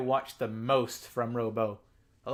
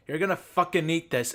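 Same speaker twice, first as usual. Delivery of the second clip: shouted mock threat, higher and louder; mock angry threat; 4 semitones higher, 7 dB louder than usual. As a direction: bark it like a bully forcing food. Mock threat in imagined scene.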